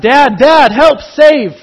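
put-on high, loud child's cry for help; a bullied kid yelling for his father. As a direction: call for Dad like a kid in trouble. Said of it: "And he cries out".

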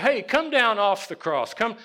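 imitating a heckler jeering at someone; mocking. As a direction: call it out high and loud, mocking him. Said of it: "they mocked him".

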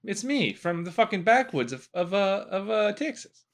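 put-on Texan accent. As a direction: slip into a mock Texan backwoods accent. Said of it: "I just went Texan there".

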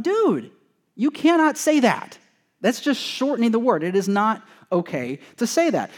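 put-on high-pitched incredulous scolding of a teen; retold scolding. Pastor to youth group kid, high mock-outraged scolding. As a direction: pastor recounting how he protested the word, in a high exasperated voice.

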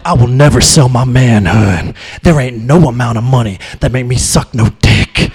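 low, forceful mock-macho voice; imitating a proud man's firm refusal; staunch refuser impression. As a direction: drop deep and declare it like a solemn vow. Acts out one staunch extreme.

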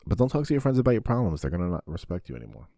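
urgent friendly warning; rushed warning. Real, not acted. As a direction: blurt the warning fast.

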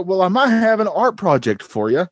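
put-on Australian accent. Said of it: "and they go".

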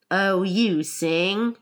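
slow, drawled creature voice; Gryphon character voice. Acted. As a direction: draw the words out for the Gryphon. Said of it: "said the Gryphon".

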